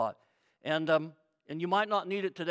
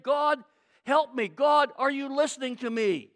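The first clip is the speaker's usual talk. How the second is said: raised, pleading call; higher, louder, urgent prayer; crying out to God; 4 semitones higher, 4 dB louder than usual. Acted. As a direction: plead loudly with God in distress. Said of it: "Have you ever cried out to God like that".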